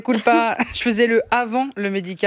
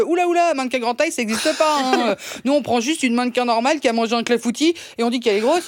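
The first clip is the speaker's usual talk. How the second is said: casting agent's reply; 2 semitones higher than usual. Retold or imitated. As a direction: brush her off like a jaded agent, fast. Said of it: "il m'a répondu direct".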